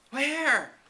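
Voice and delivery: mock sob. A narrator's reading. Carrie asking fallen Anne, lightly acted sobbing cry. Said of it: "sobbed Carrie Sloane".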